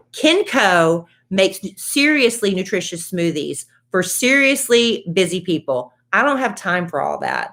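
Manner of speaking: upbeat podcast ad read; friendly sponsor read. Acted. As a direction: sell it like a host-read ad. Host reads sponsor ad.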